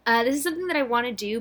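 breathless, rushed and fast; out of breath. Real, not acted. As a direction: push through while short of breath. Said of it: "I'm so out of breath".

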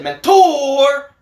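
laughing. Real, not acted.

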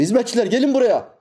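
summoning the servants, high and loud; a sultan calling his servants. Acted. Impostor sultan calls his servants, loud high call.

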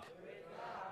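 breathy whispered echo; hushed whispered response. Shown as a demonstration. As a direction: whisper the words. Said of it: "someone say".

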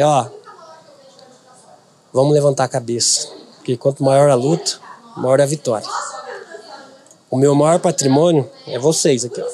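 low-pitched, earnest encouragement; retelling his own low-voiced pep talk; retold pep talk. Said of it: "Falei desse jeito pra eles".

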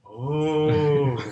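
loud, high, drawn-out mock "oh"; awed realization. Ape finally seeing through flipped binoculars, hammed-up amazement. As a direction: draw it out in comic wonder.

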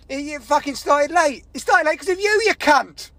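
exasperated rant building to an insult; angry rant. Retold or imitated. Ranting about being blamed for lateness.

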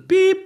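spoken bleep for the swear word. Shown as a demonstration. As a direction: say Piep like a censor beep. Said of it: "mach immer Piep". (gesprochenes Piep)

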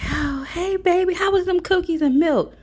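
very high, sing-song sugary voice; smiling fake-sweet mom. Mom back smiling at son's friend, imitated in high sugary voice. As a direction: coo it with an exaggerated audible smile. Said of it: "she back smiling again".

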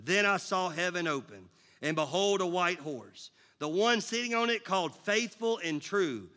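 a measured, proclaiming Bible read; scripture reading. Acted. Pastor reads Revelation to the congregation, proclaiming. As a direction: read it to the church with weight.

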